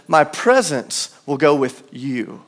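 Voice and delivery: "My" drawn out and weighted, slow; slow, "My" stressed. Shown as a demonstration. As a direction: lean on "My", singular.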